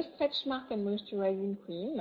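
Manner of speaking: product name in a light English accent. Shown as a demonstration. Presenter naming a cream for viewers, in a light English accent. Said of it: "j'ai dit avec mon accent anglais".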